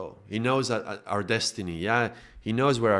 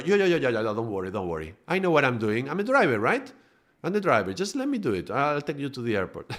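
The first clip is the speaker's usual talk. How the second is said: pushy taxi driver; 3 semitones higher, faster than usual. Retold or imitated. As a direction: reassure too eagerly, like a shady cabbie. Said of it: "And the driver".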